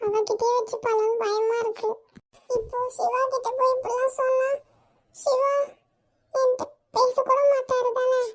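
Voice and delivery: soft, teary confession with catches of crying; tearful. Acted. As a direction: speak through quiet tears, afraid of losing him. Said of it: "இதுக்கெல்லாமா அழுவாங்க?".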